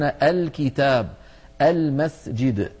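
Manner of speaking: "الكتاب" and "المسجد" begun on a clear "a"; hamza with fatha. Shown as a demonstration. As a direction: sound out "الكتاب" and "المسجد" with opening "al". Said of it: "تكون الهمزة". (نطق «الكتاب» و«المسجد» بهمزة مفتوحة)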